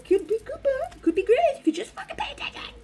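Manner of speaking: high whispered self-scolding, far up in pitch; mock inner scold. Scolding herself in a high whisper for ignoring her intuition. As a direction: hiss it at yourself like a nagging inner voice. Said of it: "It's like".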